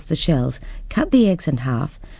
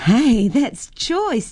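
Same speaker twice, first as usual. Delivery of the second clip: put-on delighted girl; 9 semitones higher, much slower than usual. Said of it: "Jennifer laughed".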